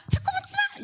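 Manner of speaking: sharp, very high-pitched parental snap; mock scolding. Shown as a demonstration. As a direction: demonstrate an irritated parent's scolding. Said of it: "이렇게 하시면 안 되고요". (아주 높은 목소리로 짜증 내며 나무라는 시범)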